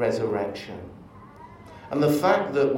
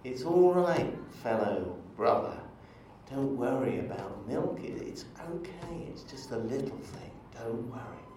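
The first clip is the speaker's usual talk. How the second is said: lightly voiced soft, soothing comfort; calm a distraught brother down softly; gentle reassurance; 6 dB quieter than usual. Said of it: "is a great encourager".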